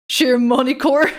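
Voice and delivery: Schiermonnikoog as an English-style guess ending in "kor"; questioning Schiermonnikoog with no throaty Dutch sounds; mispronounced Dutch name. Shown as a demonstration. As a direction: try Schiermonnikoog doubtfully with an English r. Tries a wrong reading, answers no.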